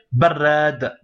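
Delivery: barrad cut off on the final d, no -un; Arabic teacher demo of the blocked ending; short form. Shown as a demonstration. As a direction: stop cleanly on the d of barrad. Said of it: "Il est mieux de dire".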